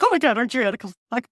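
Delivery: rapid-fire starstruck gushing; retold fangirl excitement. Writer accosting her idol in the elevator, retold excited gushing. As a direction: blurt it out like a fangirl. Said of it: "I was so excited".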